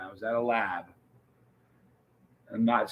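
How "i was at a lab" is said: softer, confiding repeat; hushed secret. Shown as a demonstration. A streamer teasing chat about a secret lab, hushed. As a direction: let it slip quietly like a secret. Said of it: "Not gonna say more than that".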